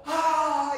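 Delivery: high, exasperated "ah"; irritated groan. Acted. Interrupted prayer as irritation surges, exasperated groan. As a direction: cry out as the annoyance surges up. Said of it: "짜증이 치밀어 오르요".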